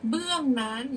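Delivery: teacher's projected read-aloud; prose-style recitation. Shown as a demonstration. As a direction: read out verse as careful prose. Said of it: "เดี๋ยวครูจะอ่านเป็นร้อยแก้ว".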